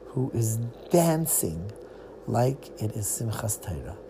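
soft hushed whisper. A narrator's reading. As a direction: whisper it like a secret. Mysterious figure in the dark.

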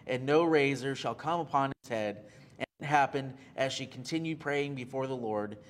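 scripture reading. Acted. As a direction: read the verses out like a preacher. Reads scripture aloud.

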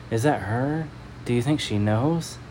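hushed nervous whisper; softly, scared whisper between men. Acted. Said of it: "The men whisper to each other".

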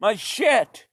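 high, whiny mock panic; panicked consumer. Everyone fretting over Chinese goods, high mock whine. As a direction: squeal like someone losing cheap goods. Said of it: "everybody was like".

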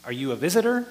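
mildly incredulous, quick retort; lightly mock a shocked, sarcastic question; sarcastic disbelief. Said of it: "their answer is kind of sarcastic".

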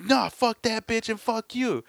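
high, drawn-out angry retort; slow, heated imitation of a hothead; defiant insult. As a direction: throw the insult back, acting out the aggressor. Acts the aggressor's defiant reply.

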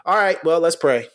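dismissive pastor. Retold or imitated. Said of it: "let them stand in front of you and tell you".

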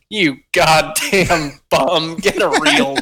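slow, rising, laughing grandpa jab; lightly voiced grumpy grandpa; mock grandpa insult. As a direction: sneer it out slowly as the old man, laughing. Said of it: "like, in a speaking voice".

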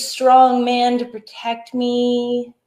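sing-song, slow theatrical lament; mock damsel in distress. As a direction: ham up a helpless damsel. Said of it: "I spent all day just being like".

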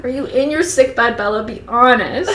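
hammed-up motherly questioning; fussing mother. Mother questioning sick Bella, fussing.

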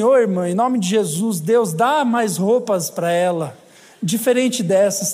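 slow, mock-pious prayer; mocking church sister. Church sister prays over a dressed-up woman, slow mock-piety. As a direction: pray over her slowly like a judgy sister. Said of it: "Tem umas irmãs que vêm pra igreja assim".

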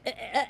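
rough imitation of a distorted scream; imitated screaming. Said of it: "That's how loud she was screaming".

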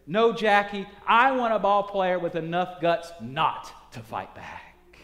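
loud, firm NO; emphatic. Acted. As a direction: put your weight on No. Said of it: "answers emphatically".

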